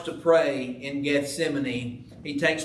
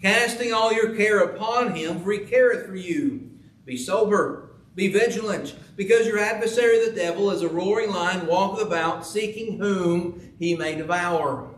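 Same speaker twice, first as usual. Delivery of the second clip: raised, ringing scripture read; 3 semitones higher than usual. Acted. Preacher reading scripture aloud to the congregation, raised and ringing. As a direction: proclaim the verses to the church.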